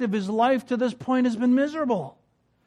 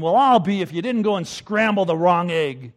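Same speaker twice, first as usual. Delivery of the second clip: louder grumbling exclamation, lightly played; a fault-finding outburst; mock exclaim; 2 semitones lower, 5 dB louder than usual. Hard-to-please husband complaining to his wife, mock exclamation. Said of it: "he exclaimed".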